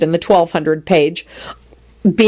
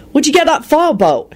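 surprised; 10 semitones higher than usual. A narrator's reading. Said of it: "he asked in surprise".

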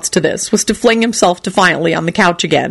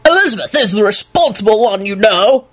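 booming self-righteous voice; 3 semitones higher than usual. Retold or imitated. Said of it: "in Richard's booming, self-righteous voice".

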